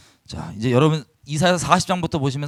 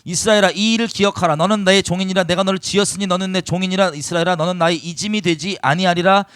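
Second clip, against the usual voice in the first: solemn, ringing reading of scripture. Acted. Pastor reads God's words to the congregation, solemn and ringing. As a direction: proclaim the verses firmly to the hall.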